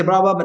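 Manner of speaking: mock babble of foreign speech; imitated gibberish. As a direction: garble it like English not understood. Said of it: "yo solo escucho que dice".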